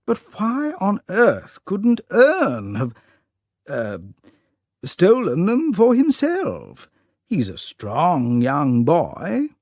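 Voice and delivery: put-on an elderly peer baffled, questioning kindly; puzzled old lord. Lord's voice in story.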